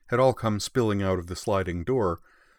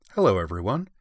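pleasant; 4 dB louder than usual. Acted. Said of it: "said Miku pleasantly".

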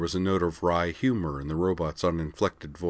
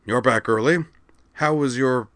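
raised, surprised question; 6 semitones higher, 5 dB louder than usual. A narrator's reading. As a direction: caught off guard, higher. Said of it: "then looked surprised".

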